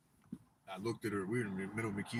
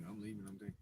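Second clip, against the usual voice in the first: high, lightly voiced girlfriend repeating a threat; a hint of a threatening girlfriend; mock threatening girlfriend; 12 semitones higher, 4 dB quieter than usual. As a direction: mimic her nagging threat, pitched up. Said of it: "she kept threatening me".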